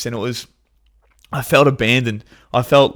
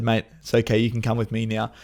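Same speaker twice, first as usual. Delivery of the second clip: gentle reassurance; 5 dB quieter than usual. Retold or imitated. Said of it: "and I said".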